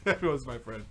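put-on low, soft laughing Cuban accent; mock Cuban accent. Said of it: "Everyone has that voice".

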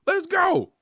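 high, loud, slow stretched shout; retold victory shout; hype shout. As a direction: scream it like a fan in the stands. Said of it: "I was like".

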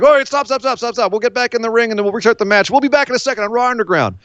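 high-pitched, hurried mock host halting a fight; hammed-up "stop" then TV sign-off; Shane McMahon. Mimicking the stage boss restarting the match, mock host.

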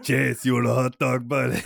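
put-on a loud, jolly Midwest accent; Midwest uncle accent. Loud hammed-up Midwest accent offering a kid a hot dog. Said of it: "And he talks like this".

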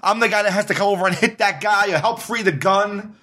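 building panic as he tells it; excited. Real, not acted. Rising panic retelling the raid.

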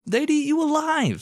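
squeaky falsetto jab; high silly voice. Acted. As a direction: pitch it way up for the punchline.

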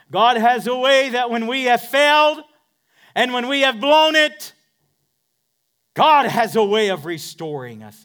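loud, high shouted preaching; full-force preaching. Acted. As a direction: lift it up in a shouted climax.

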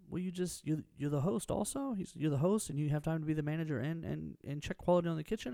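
imitating someone who can't believe it; acted incredulity. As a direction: retell it as a puzzled, incredulous question. Retelling an incredulous diner's questions.

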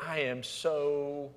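soft, dropping to a whispered sorry; driver's hushed sorry to a trooper; sheepish apology. Retold or imitated. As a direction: mumble it to the officer. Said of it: "looked at the police officer and said".

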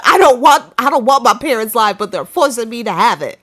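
put-on Southern accent. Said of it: "I had to say that in a Southern accent".

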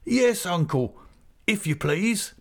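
lightly acted bashful young bride; Emily accepting before her uncle, shy and glad; half laughing, half crying. A narrator's reading. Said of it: "half a laughing and half a crying".

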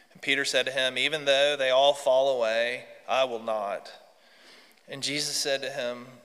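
measured, solemn Gospel reading; reading out a Bible passage; scripture reading. Acted. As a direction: read scripture aloud to the congregation. Reads the Gospel aloud.

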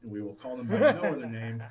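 laughing jab. Real, not acted. Mocking Astros nickname.

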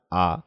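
"a" as an open Japanese "ah"; Japanese a sound. Shown as a demonstration. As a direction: say "a" as a clear, open "ah". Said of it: "So Japanese a sound".

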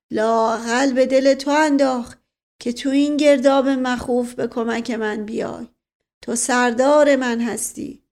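honour him like a commander decorating a soldier; stately, heartfelt praise; grateful, solemn uncle. Acted.

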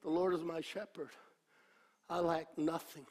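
soft, quick, heartfelt saying of the psalm; sincere meditation. Shown as a demonstration. Preacher showing how to meditate on the psalm, sincerely. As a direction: speak it to yourself and mean it. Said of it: "This is how you meditate".

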